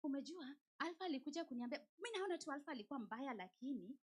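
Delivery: whisper-gossip about Alpha, lightly voiced; gossiping in Swahili. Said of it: "What do we do?".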